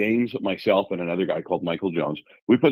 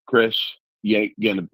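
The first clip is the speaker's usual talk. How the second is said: mild mock Southern accent; put-on Southern accent; 3 semitones higher than usual. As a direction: lightly imitate a Southern lady. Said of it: "I would like to impute a Southern accent".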